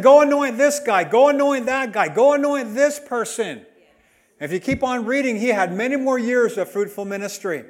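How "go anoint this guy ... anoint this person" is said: loud, commanding voice of God; God's command. Retold or imitated. Preacher voicing God ordering Elijah, loud command. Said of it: "He said".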